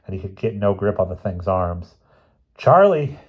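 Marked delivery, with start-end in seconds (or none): 2.6-3.2 high gasping shout for help; shouted plea; desperate cry. Acted. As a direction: call out desperately while being strangled. Professor gasps for help.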